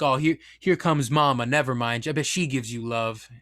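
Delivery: a hint of teasing dog talk; friendly trucker. Trucker telling the dog mama's coming, lightly imitated friendly trucker.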